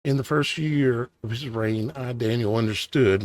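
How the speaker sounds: tired, scratchy, fading voice; hoarse voice. Real, not acted. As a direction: voice giving out, rough and worn. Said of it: "my voice is starting to go".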